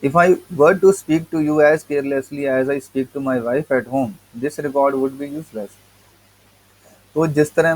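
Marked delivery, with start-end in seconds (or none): 0.0-5.7 reading the essay slowly, word by word; slow text reading. Acted. Teacher reading the English essay to students, slow and deliberate. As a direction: read each word out to the class.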